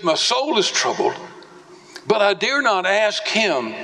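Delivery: troubled cry. Retold or imitated. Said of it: "Jesus cries out".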